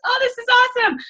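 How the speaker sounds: high, gushing mock excitement; mock elation. She acts out her emotional roller coaster, in a high, giddy voice. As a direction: swing up into giddy joy. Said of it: "I'm emotional roller coaster".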